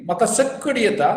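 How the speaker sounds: rattled off fast; quick Konkani demo; quick demo phrase. Shown as a demonstration. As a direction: say it briskly as a model line. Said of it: "म्हाका सक्कड येता is I know everything".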